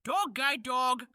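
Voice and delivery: "Dog Guy Dog" said slowly, syllable by syllable; careful slow repeat of "Dog Guy Dog"; slow sounding-out. Shown as a demonstration. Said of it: "Can you say Doggy Dog?".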